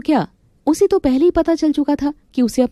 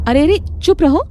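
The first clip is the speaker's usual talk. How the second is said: sharp raised scolding; angry hush; 7 semitones higher, 4 dB louder than usual. Acted. Wife silencing her husband, angry raised voice. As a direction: cut him off, louder and higher.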